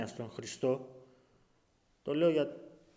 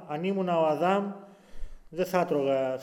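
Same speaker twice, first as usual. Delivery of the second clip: mock boast. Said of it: "έχω ακούσει από Αδάμ".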